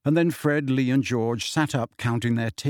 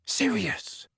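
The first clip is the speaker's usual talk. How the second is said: surprised; 9 semitones higher, 5 dB quieter than usual. A narrator's reading. Ron wakes, sees Sirius.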